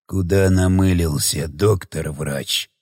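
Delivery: deep, slow undead rasp; menacing ghoul drawl; monster voice. Acted. Dead guard speaks.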